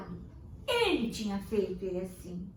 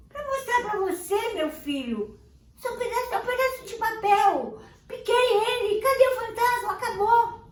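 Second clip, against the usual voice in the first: firm father; 12 semitones higher, 8 dB louder than usual. Acted. Father explains firmly.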